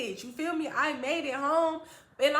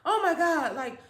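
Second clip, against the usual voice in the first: raised voice, overwhelmed mother; breathless crying; 4 semitones higher, 5 dB louder than usual. Retold or imitated. Mother crying at child's return, breathless. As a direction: imitate a mother overcome with tears. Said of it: "she can't really breathe".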